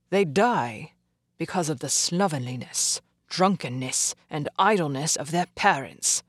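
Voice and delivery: a hint of a cold snap back; clipped, dismissive comeback; stern doctor retorting to India; curt retort. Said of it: "he retorted".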